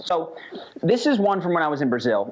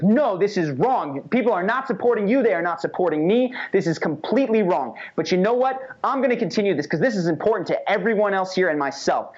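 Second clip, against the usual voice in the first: raised, driving, emphatic insistence; aggressive tone; 4 semitones higher than usual. Retold or imitated. Tony firmly insisting the guy commit or leave, forceful. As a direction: push him hard while taking his side. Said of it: "an aggressive tone of voice".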